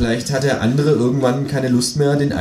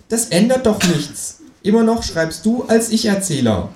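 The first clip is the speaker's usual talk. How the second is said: higher mocking kangaroo, quick then slowing and fading; 9 semitones higher than usual. Kangaroo teasing narrator about his first-person stories, higher mocking voice.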